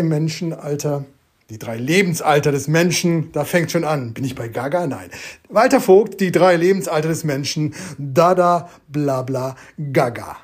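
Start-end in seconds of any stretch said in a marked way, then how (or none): 5.5-10.4 deliberate recital, sinking at the end; poetry recital. Shown as a demonstration. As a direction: recite each nonsense word on its own. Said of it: "Deshalb noch einmal für dich".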